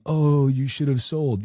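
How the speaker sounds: taunting a loser who held; mocking taunt. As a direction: drawl it like a smug troll. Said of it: "Those taunt threads saying".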